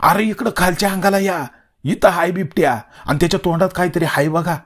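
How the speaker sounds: high-pitched urgent call. A narrator's reading. Villager below alerting searchers to the leopard, calling out. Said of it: "कुणीतरी जोरानं ओरडलं".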